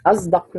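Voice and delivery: أصدق with the sad voiced towards z; ishmam of sad. Shown as a demonstration. Teacher reading a student's example, أصدق with ishmam. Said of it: "إشمام الصاد الساكنة".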